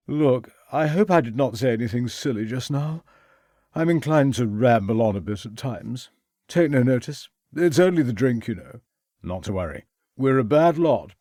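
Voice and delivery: put-on brash young gentleman, a bit tipsy; young toff voice. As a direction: careless upper-class young man.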